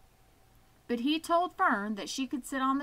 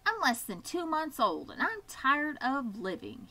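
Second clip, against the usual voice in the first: put-on young piglet whine; 4 semitones higher than usual. Wilbur the bored piglet complains.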